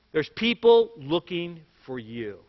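put-on slow, grave warning to the kids; dead serious. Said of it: "And he said, dead seriously".

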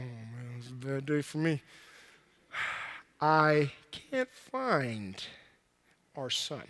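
low, soft, very slow despair; dejected lament. Acted. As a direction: drag it out like a defeated husband. Joseph laments losing Jesus.

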